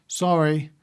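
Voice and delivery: put-on quick throwaway sorry, a child told to apologize; mock reluctant kid apology; grudging sorry. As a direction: toss it off like you don't mean it. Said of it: "Now say it like you mean it".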